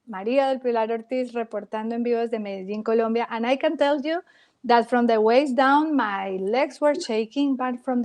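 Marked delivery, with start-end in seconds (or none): 0.1-3.3 fast Spanish reporter sign-off, clipped and official; news sign-off. Retold or imitated. A reporter signing off live on air, brisk and fast. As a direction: rattle it off like a live TV correspondent.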